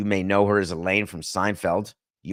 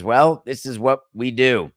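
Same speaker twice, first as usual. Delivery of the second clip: unvoiced, eerie whisper as the bird of death; 2 semitones higher than usual. The bird of death whispering to the dying daughter. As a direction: hush it like death itself is talking. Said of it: "And the bird says".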